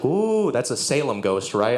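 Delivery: drawn-out slow spooky voice; slow, ooh-ing like a ghost; mock spooky ghost. Comic mocking a Salem ghost, slow spooky drawl.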